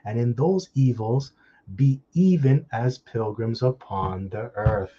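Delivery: measured Bible reading with drawn-out phrase ends; emphatic, deliberate recitation of scripture. Real, not acted. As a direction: read out the verse deliberately, stretching key words. Reads scripture aloud.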